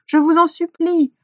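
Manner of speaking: high, loud plea; imploring. A narrator's reading. Hunter begging disbelieving villagers, imploring. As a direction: beg them urgently to listen. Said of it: "implora Aélibu".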